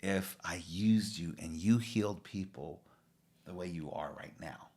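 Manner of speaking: a quiet, tender Jesus speaking to a struggling disciple; soft-spoken Jesus. Retold or imitated. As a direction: gently tell James, almost under your breath. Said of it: "And Jesus is telling him why".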